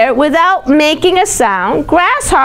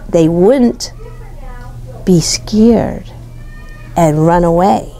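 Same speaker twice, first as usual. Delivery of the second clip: whispered; 6 semitones lower than usual. A narrator's reading. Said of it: "without making a sound".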